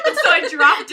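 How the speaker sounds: laughing through the words; can't stop laughing as you say it. Real, not acted. Laughing while telling.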